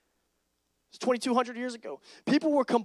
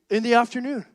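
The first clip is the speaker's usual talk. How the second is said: louder disbelieving repeat; incredulous echo; 7 dB louder than usual. Retold or imitated. Speaker repeats his friend's answer, incredulous.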